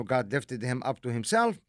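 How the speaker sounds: usual speaking voice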